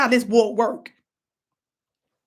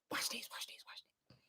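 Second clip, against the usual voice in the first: whispered tease; 22 dB quieter than usual. Real, not acted. Vlogger teasing viewers with a whispered build-up. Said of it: "whisper heard".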